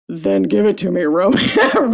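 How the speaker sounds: mock demand straining up to a high pitch; high-pitched, strained demand. Shown as a demonstration. Co-host showing how the book's line could have been read, high-pitched and strained. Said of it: "I demand high-pitched and strained".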